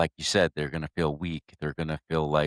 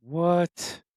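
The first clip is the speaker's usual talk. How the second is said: sudden high-pitched gasp of disbelief; a stunned, much higher What?; shocked what; 12 semitones higher than usual. Real, not acted. Host reacting to the suicide call news, stunned.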